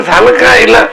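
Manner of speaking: high, worried cry of concern; child frightened for the cow; alarmed call. Retold or imitated. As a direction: ask in sudden alarm, pitched well up.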